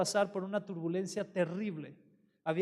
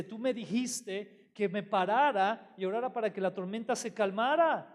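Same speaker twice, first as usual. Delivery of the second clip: confused complaint; 3 semitones higher than usual. Retold or imitated. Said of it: "él se puso a orar y dijo".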